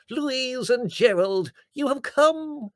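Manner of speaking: high, loud, drawn-out greeting; rapturous cry. A narrator's reading. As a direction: hail them like a divine apparition. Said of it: "she cried".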